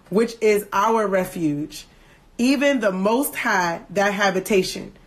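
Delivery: solemn King James recitation; scripture reading. Acted. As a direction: read it like a psalm in church. Reads Psalm 91 aloud.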